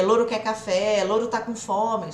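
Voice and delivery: lightly voiced parrot squawk. Teacher imitating a parrot saying learned lines. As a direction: mimic a parrot repeating phrases. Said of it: "O papagaio faz isso".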